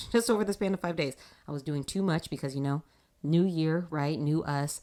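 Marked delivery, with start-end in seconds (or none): 0.1-1.2 laughing faster repeat; incredulous quick repeat; amused, faster retake. Shown as a demonstration. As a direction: toss it off quicker with a grin.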